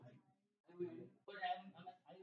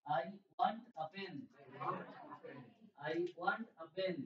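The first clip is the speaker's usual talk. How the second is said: very slow, even words; slow model sentence; much slower than usual. Shown as a demonstration. Teacher repeats the sentence slowly for practice. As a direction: draw each word out. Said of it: "একসাথে বলার চেষ্টা করো".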